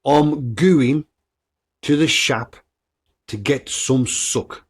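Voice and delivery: Black Country phrase repeated in separate chunks; Black Country accent. Shown as a demonstration. Podcaster repeating a saying for listeners, Black Country accent in chunks. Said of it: "I'm gonna say that again".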